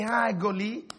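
soft, low chummy hello; mock-friendly greeting. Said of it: "with a nice piece of".

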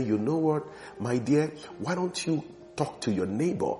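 soft, gentle nudge; still small voice. Acted. Holy Spirit nudging a believer to talk to a neighbor, gentle small voice. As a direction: imitate a quiet inner prompting. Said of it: "speaks in a still small voice".

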